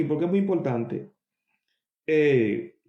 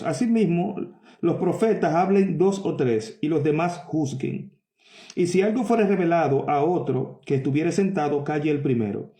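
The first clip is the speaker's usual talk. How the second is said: scripture reading. Acted. Preacher reading Corinthians to his congregation, measured and solemn. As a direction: read the verse out with weight.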